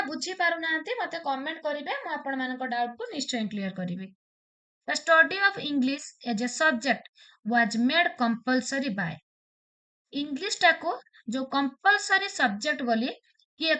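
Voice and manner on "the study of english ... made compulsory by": very slow, word-by-word exam question; reading a quiz question. Shown as a demonstration. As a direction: read it out slowly for the class. Reads quiz question aloud. (ଧୀରେ ଧୀରେ ପ୍ରଶ୍ନ ପଢ଼ିବା)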